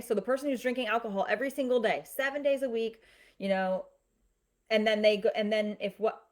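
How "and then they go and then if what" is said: tripping over the words; stuttering. Real, not acted. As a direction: stumble and restart the phrase. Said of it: "I'm stuttering".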